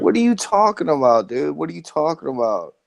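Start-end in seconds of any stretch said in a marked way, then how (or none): 0.0-1.6 exasperated. Real, not acted. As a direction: throw it back at them in disbelief. Exasperated outburst in heated argument.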